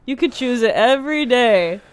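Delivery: imitating a tender mother; soothing mom. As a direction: gently reassure an upset child. Imitates mother soothing crying child.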